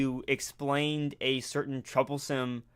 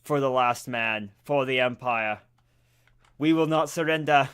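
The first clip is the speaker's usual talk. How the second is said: roaring rallying speech; 5 dB louder than usual. Acted. Rallying Imperial troops in game.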